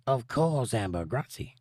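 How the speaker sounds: lightly put-on French accent; a hint of mock French in the vowels. Host reading Mabel's comment aloud to viewers, light mock French accent. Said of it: "she has a French accent".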